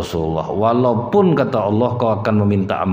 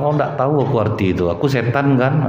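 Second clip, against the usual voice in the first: angry husband; 4 semitones higher than usual. Retold or imitated. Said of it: "Ngamuk suami ya".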